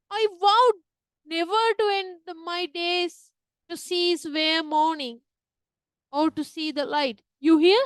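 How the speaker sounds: dramatic vow. Shown as a demonstration. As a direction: declaim it like a grieving widow on stage. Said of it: "she must have told like that".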